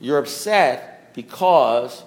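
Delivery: slow, pause after because; measured, drawn-out sponsor's pronouncement; deliberate repetition. Acted. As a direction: let each half of the punchline land. Punchline repeated slowly for effect.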